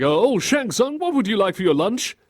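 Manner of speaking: high, indulgent questioning adult; hammed-up doting adult; grown-up to child. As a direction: ask a small child in a sing-song lift. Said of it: "five-year-old suggesting what you want for lunch".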